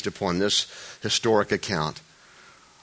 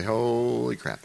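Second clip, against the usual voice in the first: laughing mock dismay; 5 dB quieter, slower than usual. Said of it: "he had to stop and just say".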